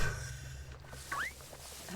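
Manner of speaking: breathy, voiceless laugh. Real, not acted. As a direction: laugh softly after yelling by accident. Laughing after accidental yell.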